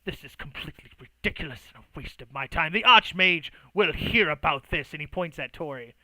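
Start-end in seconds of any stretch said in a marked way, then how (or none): 0.0-4.9 dismissive start swelling into a threat; scoffing. Acted. Mage rejecting the compromise, scoffing and indignant. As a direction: scoff it off, then come down hard. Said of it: "scoffs a bit and he kind of goes".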